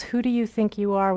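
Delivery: mildly scornful challenge; pointed tone. Acted. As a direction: put some attitude in the question. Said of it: "with a tone I imagine".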